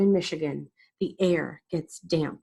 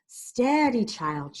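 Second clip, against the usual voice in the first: cooed; 5 semitones higher, slower than usual. A narrator's reading. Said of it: "she cooed".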